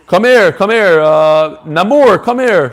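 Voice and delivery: loud coaxing call; calling the cat. Real, not acted.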